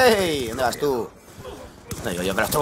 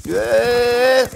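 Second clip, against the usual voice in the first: startled shout; 10 semitones higher, 7 dB louder than usual. Real, not acted. Startled shout during a gunfight.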